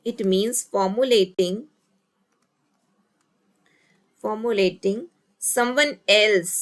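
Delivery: slow delivery with long pauses; piece-by-piece dictation; dictating while writing. Real, not acted. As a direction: spell out the phrase slowly for note-takers.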